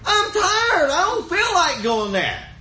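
high-pitched retold protest, easing down; acted-out weary plea; mock complaining husband. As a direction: complain to the wife, playing up the tiredness. Acted plea to his wife.

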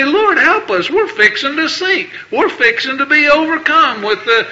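a preacher acting out a frantic prayer; desperate prayer. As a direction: cry out for rescue like you're sinking. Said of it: "when we cry out and say".

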